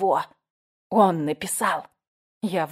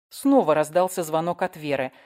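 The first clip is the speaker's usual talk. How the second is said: ordinary delivery, nothing marked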